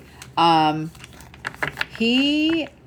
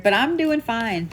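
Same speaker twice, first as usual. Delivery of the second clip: imitating grandma; 4 semitones higher than usual. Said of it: "that's exactly how she said it".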